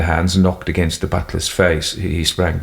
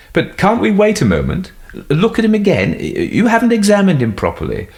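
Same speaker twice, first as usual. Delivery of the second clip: much higher, urgent plea; desperate pleading; 13 semitones higher, 3 dB louder than usual. Acted. Son pleading.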